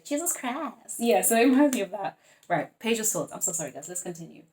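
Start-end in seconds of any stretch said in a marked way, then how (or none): 0.0-1.0 mock catchphrase. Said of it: "a term that you like to say".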